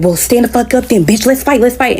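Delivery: mock goading. Acted challenge to a fight.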